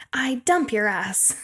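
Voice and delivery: slow, drawn-out imitation of a breakup; quoted breakup line. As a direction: stretch out the quoted dumping, word by word. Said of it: "she's like".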